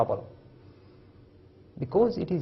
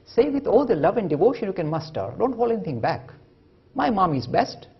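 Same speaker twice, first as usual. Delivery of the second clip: wise man's advice; 4 semitones higher, 4 dB louder than usual. Retold or imitated. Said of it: "says the wise man".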